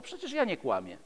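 ordinary delivery

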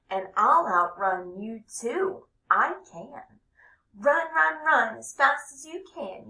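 high, loud bragging cartoon voice; boasting cheese man. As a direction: crow it like a cocky little runaway.

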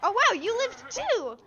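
high, slow, doting voice for a pet; cutesy praise. Acted. Praising the surviving companion, cooing high and slow. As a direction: gush over the little buddy like a proud parent.

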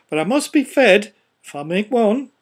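a jolly greedy gent; greedy gentleman. A narrator's reading. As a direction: insist on being fed, half joking. Nose gentleman voiced.

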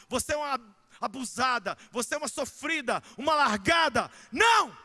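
loud rising preaching; preaching at full force. Real, not acted. Pastor rejecting labels put on women, preaching loud. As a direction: preach hard against the labels.

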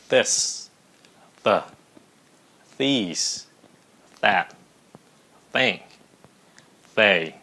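"This", "the", "these", "that", "think", "they" each start with a crisp T like Vietnamese "tờ". Shown as a demonstration. Teacher modelling words for students to repeat, one by one with T. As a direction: say each word slowly with a plain T onset. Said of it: "các bạn hãy theo phát âm mấy cái từ".

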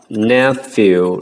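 "nephew" slowly, EW said as "yoo"; EW as a U sound. Shown as a demonstration. Teacher showing students the word, clear U sound. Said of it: "phần E W được phát âm là âm U".

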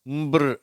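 ம்பிர் starting on a hummed m; blended consonant sound. Shown as a demonstration. Teacher showing three letters said together, blended ம்பிர். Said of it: "அப்படின்ற உச்சரிப்பு".

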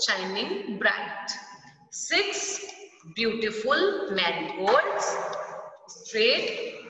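slow, sing-song poem reading; poem recital. Acted. Teacher reciting the blackboard poem slowly to children. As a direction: read it slowly like a nursery rhyme.

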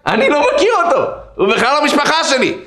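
high, insistent acted exclamation; emphatic denial. Patient confessing to the nurse about the rabbi, high emphatic denial. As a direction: insist you never knew the man.

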